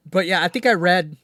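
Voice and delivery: talking through the hiccups; speaking while hiccuping. Real, not acted. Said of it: "I'm sorry, I'm hiccuping".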